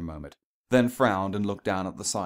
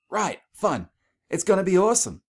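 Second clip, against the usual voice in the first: much higher and louder, hollow cheer; forced enthusiasm; 11 semitones higher, 7 dB louder than usual. Acted. Dash trying to convince herself about the trip. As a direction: oversell it, convincing yourself.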